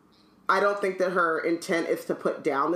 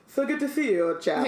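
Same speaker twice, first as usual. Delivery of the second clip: pompous politician; 8 semitones higher than usual. Retold or imitated. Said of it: "He's already running for".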